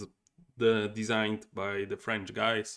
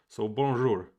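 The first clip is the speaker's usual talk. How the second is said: French greeting; 8 dB louder than usual. Shown as a demonstration. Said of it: "can do a better French accent".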